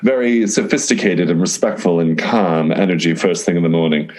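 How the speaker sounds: lightly put-on posh-British accent; amateur attempt at a British accent; terrible British accent. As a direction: try a British accent, not very convincingly. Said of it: "That was a terrible accent".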